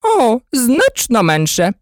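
high, slow fussy exclamation; the queen answering Alice, high exclamation; queen exclaiming. A narrator's reading. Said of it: "вигукнула королева".

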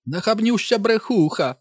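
high shrieking mother; mother screaming at Liz; screaming Mrs Dulin. A narrator's reading. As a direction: fling the insult.

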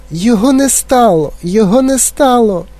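high mock wailing lament. Mother wailing that her son vanished. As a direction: wail it out. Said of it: "і заголосила".

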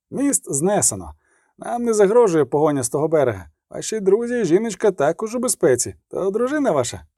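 a kindly orderly soothing his patient; chatty field medic. Acted. Medic talks to wounded Geralt. (балакучий фельдшер заспокоює відьмака)

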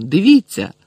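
high, loud urgent call; exclaiming. A narrator's reading. Ron urges Snape to see her teeth, exclaiming. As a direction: insist that the teacher look. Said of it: "вигукнув Рон".

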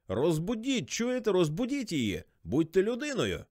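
high, insistent tipsy plea; drunken pleading. A narrator's reading. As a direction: beg like a drunk who won't hang up. Drunk caller begging to wake Sally.

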